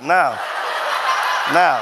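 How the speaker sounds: loud, punchy call of now. Retold or imitated. Preacher retelling his demo, calling out loud. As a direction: bark each now out sharply.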